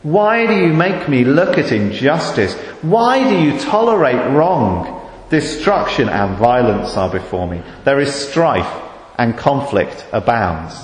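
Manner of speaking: pleading, rising on the whys; a lament hurled up at God; crying out. Acted. Prophet pleading with God over injustice. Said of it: "Or cry out to you".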